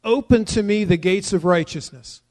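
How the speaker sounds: scripture read out plainly. Shown as a demonstration. Preacher reading the verse to the congregation, plainly. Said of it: "continues in verse nineteen with a petition".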